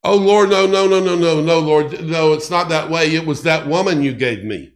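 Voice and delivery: Adam blurting nervous excuses; pleading excuse. Acted. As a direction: beg off the blame, rushing at the end.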